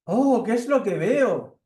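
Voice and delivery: high, slow, loud surprised mouse; surprised mouse at the window, high and slow; little mouse. Acted. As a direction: peer in the window amazed, squeaky and slow. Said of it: "aparece por la ventana una ratoncita".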